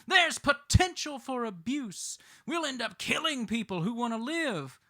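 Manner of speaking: high, loud mimicry of alarmed opponents; mock screaming. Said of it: "opponents leap up screaming".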